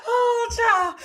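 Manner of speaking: high, loud words through laughter; laughing. Real, not acted. Host reacting to a comment, laughing hard. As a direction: gasp it out while laughing.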